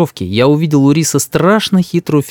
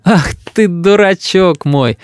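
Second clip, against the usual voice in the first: higher, drawn-out fond teasing; laughing mother; 6 semitones higher, slower than usual. A narrator's reading. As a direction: coo fondly at a silly son, no real laugh. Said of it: "рассмеялась мама".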